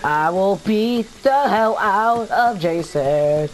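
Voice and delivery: low, slow heroic vow; mock heroic warrior. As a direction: draw it out like a battle-hardened hero. Playing a warrior hyping himself up.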